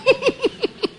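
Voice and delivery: high, soft chuckling; laugh. Real, not acted. Preacher amused by his neighbour story, chuckling. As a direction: giggle quietly at your own story.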